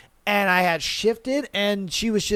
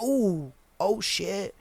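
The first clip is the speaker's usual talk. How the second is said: hushed awe; 8 dB quieter, much slower than usual. Retold or imitated. Acts out her impressed reaction.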